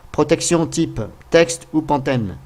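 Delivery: Pantene read slowly, unsure of the word; halting read of Pantene. Real, not acted. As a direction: sound out Protection type texte ou Pantene carefully. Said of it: "C'est peut-être que je prononce mal".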